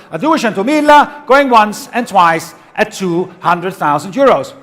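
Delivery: going once, going twice call; loud auctioneer call. Real, not acted. Auctioneer closing the sale.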